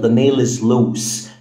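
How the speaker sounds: The nail is loose, very slowly; slow example. Shown as a demonstration. Teacher reading the example slowly. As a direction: spell out the sentence for learners. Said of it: "لما أقول لك".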